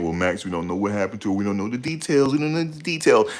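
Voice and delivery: a light mock of the commenters; mocking critics. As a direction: mimic the know-it-alls, rising. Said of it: "I know what you're saying".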